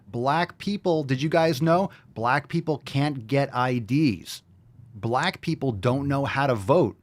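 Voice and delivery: condescending mock voice. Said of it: "They will talk slower so people understand".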